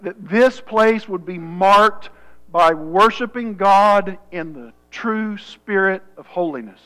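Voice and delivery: measured public prayer with long pauses; earnest prayer. Real, not acted. Pastor asks God to fill his church, earnest prayer.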